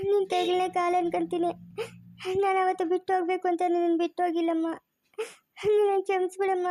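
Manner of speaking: crying while begging forgiveness; tearful pleading. Acted. Mother crying as she begs her daughter's forgiveness.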